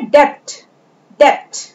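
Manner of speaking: "डेप्थ" said without a full B; silent B. Shown as a demonstration. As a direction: model the word "डेप्थ" in one syllable. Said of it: "इसको क्या पढ़ते हैं?".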